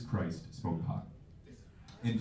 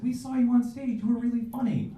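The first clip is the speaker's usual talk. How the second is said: high mock women's voices; higher, louder lady voice; ladies praising; 14 semitones higher, 4 dB louder than usual. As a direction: chirp the compliment high. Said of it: "they said".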